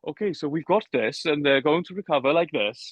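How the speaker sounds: a hint of a Welsh accent; lightly put-on Welsh lilt. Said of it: "Sorry for a terrible Welsh accent".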